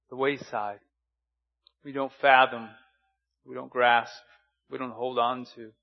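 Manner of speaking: earnest, measured pastor's prayer. Acted. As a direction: pray over the congregation.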